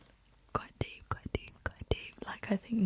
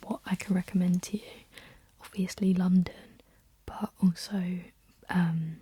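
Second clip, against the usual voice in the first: ASMR whisper. Real, not acted. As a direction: whisper it close and unhurried, like ASMR. Whispered ASMR ramble throughout.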